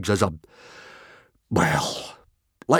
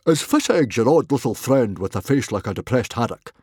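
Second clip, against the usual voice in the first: big put-on Viking chief voice; booming; 2 semitones higher, 4 dB louder than usual. A narrator's reading. Father asks about son's odd friend, booming. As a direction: boom it out bluntly. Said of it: "boomed Stoic".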